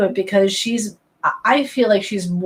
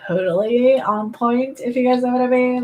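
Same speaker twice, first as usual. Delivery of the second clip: put-on Valley Girl accent; 3 semitones higher than usual. Shown as a demonstration. Boasting to viewers of accents, Valley Girl accent. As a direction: slip into Valley Girl, stretching the words. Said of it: "my Valley Girl accent".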